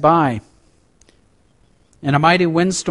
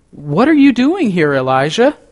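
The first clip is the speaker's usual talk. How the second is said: raised, pointed question to Elijah; God's pointed question; 6 semitones higher than usual. A narrator's reading. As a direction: call him out, firm and high. God questions Elijah at Sinai.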